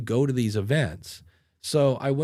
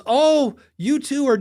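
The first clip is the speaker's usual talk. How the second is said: imitating a much higher, louder, thrilled greeting; excited squeal; 12 semitones higher, 8 dB louder than usual. Katie spotting the two men meeting, thrilled squeal. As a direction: gush it like she just spotted two friends together. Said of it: "she walks by and she goes".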